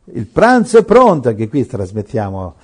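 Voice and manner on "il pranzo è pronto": lightly voiced sister calling out, higher and brighter; a hint of a sister announcing lunch from the kitchen. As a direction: call the family to lunch. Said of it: "arriva una sorella e dice".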